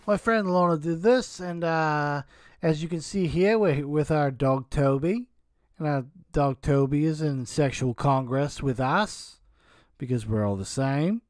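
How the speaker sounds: a light, offhand Australian accent imitating Kimberly; mock Australian accent. Mocking Kimberly's description of the drawing, in a light Australian accent. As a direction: parody her in a loose Australian accent. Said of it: "I did kind of an Australian accent there".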